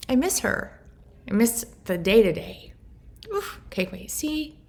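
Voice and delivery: missing her late mother, on the verge of crying; tearful. Real, not acted. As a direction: fight the tears as you say it. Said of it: "I'm not gonna cry".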